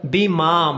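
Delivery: बिमा with a long-held final aa; lengthened maa. Shown as a demonstration. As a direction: stretch the second syllable of बिमा. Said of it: "मा को लंबा करेंगे". (बिमा में मा को लंबा करके)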